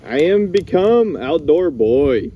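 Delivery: slow, proud proclamation; triumphant. Real, not acted. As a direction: announce your victory over the fire. Fire finally lit.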